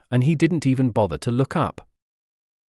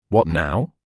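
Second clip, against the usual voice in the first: whining; 6 semitones lower than usual. A narrator's reading. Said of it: "Computer whined".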